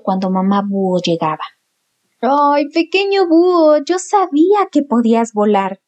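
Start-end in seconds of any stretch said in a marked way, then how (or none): 2.2-5.8 proud. Acted. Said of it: "dijo mamá búho con orgullo".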